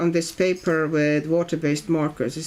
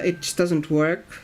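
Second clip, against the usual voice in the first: ordinary delivery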